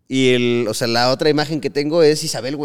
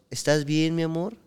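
pleading voice; 3 dB quieter, slower than usual. Retold or imitated. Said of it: "me estaba diciendo".

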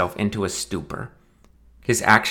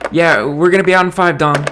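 calling out; 9 semitones higher, 7 dB louder than usual. Acted. Calling back through door.

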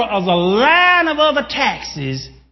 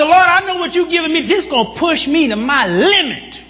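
higher, faster urgent appeal to the Lord; fervent prayer; 6 semitones higher, 3 dB louder than usual. Retold or imitated. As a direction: cry out to God mid-run. Pastor praying while running.

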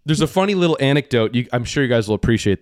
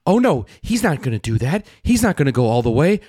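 lightly voiced excited viewer; hammed-up running commentary; mock gasping viewer; 3 semitones higher than usual. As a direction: play the chatty guy reacting. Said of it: "the guy saying".

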